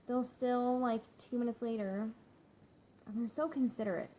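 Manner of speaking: normal talking voice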